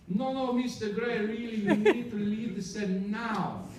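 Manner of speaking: high, slow, urgent plea to leave; retold crew member pressing him to go now; insistent mock warning, pitched high. Crew urging him off flooding set.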